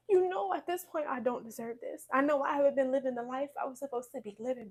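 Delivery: retold plea of a broken woman; pleading prayer. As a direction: beg God, voice lifted and strained. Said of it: "I said".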